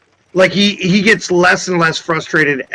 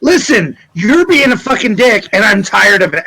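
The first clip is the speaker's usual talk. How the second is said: fed-up scolding, pitched up at the start; suppressed irritation, accent dropped. Acted. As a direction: scold him without yelling, out of the act. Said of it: "trying to keep his voice down".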